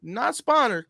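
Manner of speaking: Southern drawl on SPONSORED, said like "spannered"; slurred down-south country accent; fake country accent. Real, not acted. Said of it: "that's my fake country accent".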